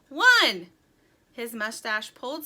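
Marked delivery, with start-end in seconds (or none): 0.1-0.7 loud, higher count; calling out. A narrator's reading. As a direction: shout the first number. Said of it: "he called".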